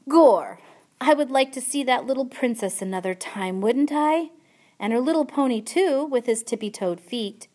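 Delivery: put-on high, lively girl's voice; eager storybook child; wishful peasant girl, excited. A narrator's reading.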